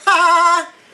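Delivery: bursts into a high real laugh; delighted laugh at stained fingers. Real, not acted. Laughs at the red juice.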